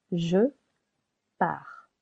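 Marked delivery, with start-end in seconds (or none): 1.4-1.9 "pars" as one syllable, par; silent S. Shown as a demonstration. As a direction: say "pars" without the s, ending on French r. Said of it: "Silent S".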